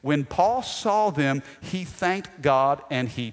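slow, stress on saw; slow it down and lean on saw; slow emphatic reread. Shown as a demonstration. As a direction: dwell on the words for emphasis. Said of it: "watch this".

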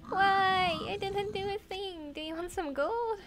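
high, loud nervous begging; panicked pleading. Real, not acted. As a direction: plead frantically to calm him. Pleading with angry pigman.

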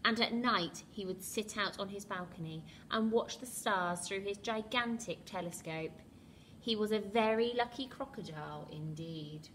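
put-on lively read-aloud to children; storybook reading. A narrator's reading. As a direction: read it like a bedtime picture book. Reads picture book to children.

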